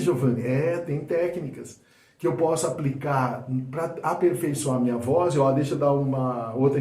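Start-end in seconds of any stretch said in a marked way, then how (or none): none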